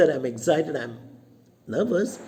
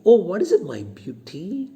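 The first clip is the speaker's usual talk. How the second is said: loud sweet greeting; 4 semitones higher, 3 dB louder than usual. Acted.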